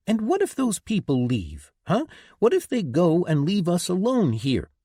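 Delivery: high, loud angry yell. A narrator's reading. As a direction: shout it at him in frustration. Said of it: "she yelled".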